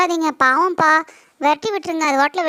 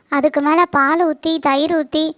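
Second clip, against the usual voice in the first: insistent; 3 dB louder than usual. Acted. Wife insists on snake ritual.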